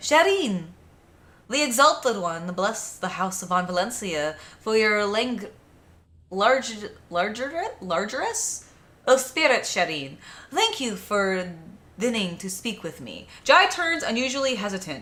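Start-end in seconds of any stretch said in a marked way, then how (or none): 0.0-13.3 put-on French accent, stumbling and tripping over words. Storyteller voicing a character who thanks someone for speaking, in a French accent. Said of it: "I have already forgotten how to do the French accent".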